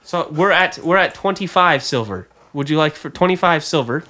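a hint of auctioneer's patter. Auctioneer asking the room for twenty-five silver, lightly voiced.

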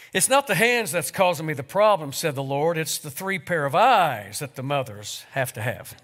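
warm, unhurried reading of a tribute to a congregation; story reading. Acted. Pastor reading Erma Bombeck's tribute to mothers to his church, gently storytelling. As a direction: read the tale aloud to the church, voicing each figure.

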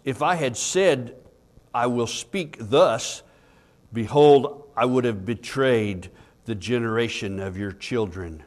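scripture reading. Acted. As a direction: read the psalm out with weight. Reads scripture aloud, louder.

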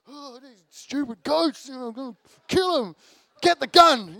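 mock fury at the goats, building to a shout; furious rant. After goats wreck his car, a furious retold outburst. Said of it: "like, furious".

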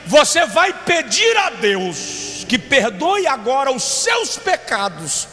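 slow, firm grandfather's warning; stern grandfather. Retold or imitated. Grandfather correcting the boy mid-prayer, slow and firm. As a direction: lay down the rule slowly, like a stern grandfather. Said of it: "Aí ele disse assim".

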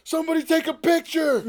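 high, loud, gleeful outburst; laughing excitement. Retold or imitated. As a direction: cry it out laughing at the blood. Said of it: "And I was like".

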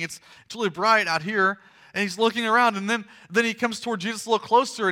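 animated sermon storytelling; preaching. Acted. Preacher imagines the risen man blinking before the crowd, animated. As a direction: tell it with pressing energy.

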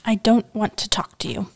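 tight, choked-up words after crying; constricted voice. Acted. Girl refusing to talk to the boy, constricted voice. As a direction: hold back tears, throat tight. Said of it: "she said in a constricted voice".

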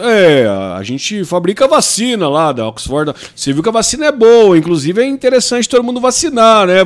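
lightly voiced patient old man; elder talking to child. Host plays Boris Johnson coaxing about vaccines, elderly coaxing voice. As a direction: explain it as if to a small child. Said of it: "um idoso conversando com uma criança".

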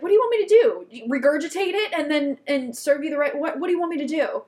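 loud, high exasperated retort to a yelling customer; hammed-up outrage, pitched high. Waitress snapping back at a yelling diner, exasperated and loud.

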